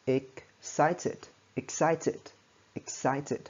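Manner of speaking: "excited" in three distinct syllables, ik-SAI-tid; "excited" sounded out clearly in three beats. Shown as a demonstration. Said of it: "Hoặc là ba âm tiết này".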